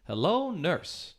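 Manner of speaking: slow, drawn-out suggestive greeting; leering doctor. Retold or imitated. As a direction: stretch out "Hello" like a vaudeville doctor. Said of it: "the thing that the doctor always said".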